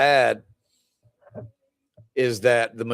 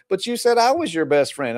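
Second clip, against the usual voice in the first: higher-pitched mock little-girl complaint; hurt protest; 6 semitones higher than usual. Little girl to her best friend, hurt protest.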